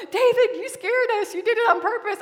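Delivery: high, loud, laughing protest; laughing accusation. Retold or imitated. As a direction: scold him through laughter. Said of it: "one of my friends was like".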